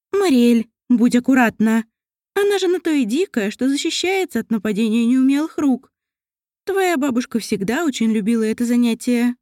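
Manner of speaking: motherly elf, lightly voiced; caring elf mother. Narrator voices mother Elenya.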